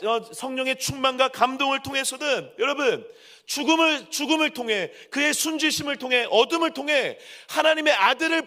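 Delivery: high, driving sermon crescendo; impassioned preaching. Real, not acted. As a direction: hammer each phrase out to the congregation. Preaches at full force. (열정적으로 외치는 설교)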